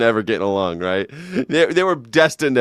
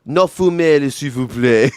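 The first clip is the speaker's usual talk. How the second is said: polite French request; 6 dB louder, slower than usual. Retold or imitated. Host imitating the French sign beside the German, overly polite. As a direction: ask with exaggerated courtesy. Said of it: "it was the French that was like".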